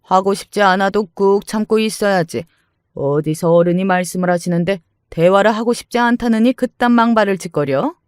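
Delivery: put-on domineering older woman, scolding; haughty mother-in-law. Mother-in-law berating her daughter-in-law, haughty scolding.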